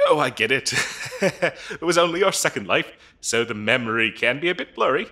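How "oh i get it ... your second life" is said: laughing. Acted. Laughs at the applicant's excuse.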